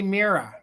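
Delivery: Mira said MEER-uh, no final r; regional Mira. Shown as a demonstration. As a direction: drop the r: MEER-uh. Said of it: "around here we say Mira".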